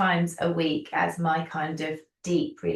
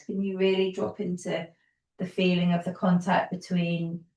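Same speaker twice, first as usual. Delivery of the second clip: calm yoga teacher guiding, unhurried pauses; easy, soothing class-leading voice; guided yoga instruction. Real, not acted. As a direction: lead them gently through each movement, leaving space. Guides gentle movement with long pauses.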